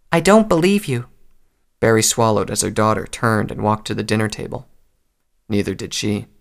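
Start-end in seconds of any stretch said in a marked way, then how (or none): 0.1-1.1 high little filly voice; sulky child. A narrator's reading. Filly doubts her mother's promise, childishly sulky. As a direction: refuse it like a pouting small child.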